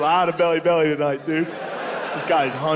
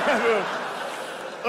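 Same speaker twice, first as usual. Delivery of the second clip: soft mocking call; 6 semitones higher, 5 dB quieter than usual. Mock consoling a crying rival.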